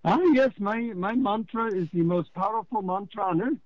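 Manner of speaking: mock Indian guru voice with an Indian accent, high and grand; deep Indian accent. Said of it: "you know, deep Indian accent".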